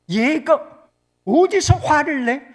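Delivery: high, loud, indignant rebuke; mock scolding. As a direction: scold as if affronted by backtalk. Acts out an angry scolding reply.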